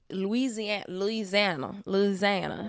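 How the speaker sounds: Louisiana local saying "Louisiana" with the middle squeezed to "Looz-ANN-uh"; local Louisiana accent. Retold or imitated. Podcast host trying out the state's name like locals, Louisiana accent. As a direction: imitate locals running "Louisiana" together in a Louisiana accent. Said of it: "That's how they talk".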